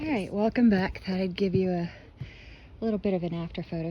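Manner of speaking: winded, catching breath between words. Real, not acted. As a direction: talk while still panting. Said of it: "Sorry, I'm out of breath".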